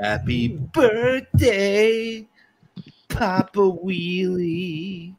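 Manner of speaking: very slow whispered birthday song; Marilyn Monroe. Shown as a demonstration. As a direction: breathe it slow and sultry, Marilyn style. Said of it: "could do my Marilyn Monroe for you".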